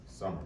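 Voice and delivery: "summer" weighted on "sum", falling away; stress on first syllable. Shown as a demonstration. Poet repeats word for the audience, "summer" stressed on "sum". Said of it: "the first syllable, sum, is the stressed syllable".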